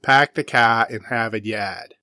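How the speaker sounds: dropped-R Boston accent, car as "cah"; mild Boston accent demo. Shown as a demonstration. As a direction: do a light Boston accent, no R's. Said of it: "The classic Bostonian accent".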